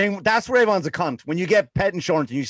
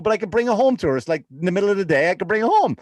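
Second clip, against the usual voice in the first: usual speaking voice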